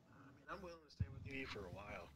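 away from mic. Shown as a demonstration. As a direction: say it from across the room. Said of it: "make sure your voice is being picked up".

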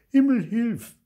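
loud, high-pitched cry for help to heaven; called out. A narrator's reading. Grandma's mother when things got bad, calling out. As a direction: call it out high and strong. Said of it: "gerufen hat".

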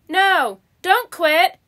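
urgent but contained shout; mild crowd shout. A narrator's reading. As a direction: lightly shout it as a protesting crowd. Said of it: "shouted the crowd".

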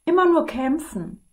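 a hint of weary dragon, playful; sigh, then suggest the race; lightly voiced dragon. Dragon talking the prince into a race, lightly voiced.

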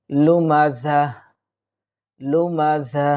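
লুমা জা ending in an audible h, not "ti"; pausal ending. Shown as a demonstration. Teacher shows the stop on a round ta, লুমা জা ending in h. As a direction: say লুমা জা and stop, closing on a breathed h. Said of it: "যদি আমরা ওয়াকফ করে থেমে যাই".

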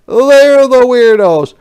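loud, high drawn-out accusing shout; army shout. Acted. Soldiers pointing out the weirdos, shouting. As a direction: yell the accusation, stretched out. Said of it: "shouted the army".

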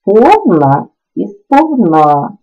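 «сповна» said twice, first stressed on the first syllable, then on the last; two stress variants. Shown as a demonstration. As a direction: show both stresses of «сповна» slowly. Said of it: "мають подвійний наголос". (подвійний наголос у слові «сповна»)

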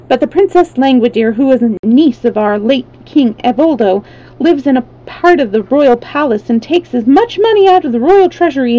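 a hint of an eager informant; lightly voiced wheeler. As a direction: explain it keenly to a newcomer.

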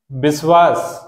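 विश्वास said slowly and clearly, every sound crisp; careful pronunciation. Shown as a demonstration. Teacher showing students how to say विश्वास, careful pronunciation. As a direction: spell out विश्वास with a clean श and व. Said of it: "मैं आपको उच्चारण करके बता देता हूँ".

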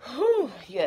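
winded exhale; out of breath. Real, not acted. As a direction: blow out breath after workout. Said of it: "that's why y'all see sweat".

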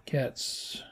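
soft unvoiced mutter; whispered grumble. Real, not acted. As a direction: breathe the word out. Whispered curse at cats.

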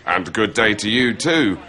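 mock read-through of dialogue; reading off autocue. Mocking the script-reading idea, autocue recital. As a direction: recite the reply without acting it. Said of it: "reading the scripts to camera on auto cue".

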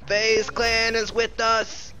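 high, loud, slow rallying proclamation; war cry speech. Acted. Streamer hyping teammates with a slow, loud rallying proclamation. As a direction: proclaim it like a general before battle.

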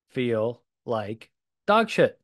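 ordinary talk

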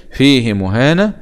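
فيه مهانة with "fiihii" drawn out; haa with sila. Shown as a demonstration. Teacher showing Hafs's reading, فيه مهانة with long "hii". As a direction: slowly lengthen the kasra on فيه before مهانة. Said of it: "بالصلة".

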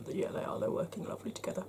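talking through hiccups; hiccuping. Real, not acted. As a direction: hiccups breaking the words. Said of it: "Sorry, I'm hiccuping".

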